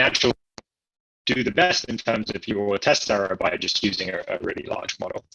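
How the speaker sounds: staticky robotic audio; robot voice through bad connection. Real, not acted. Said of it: "You sound like a robot".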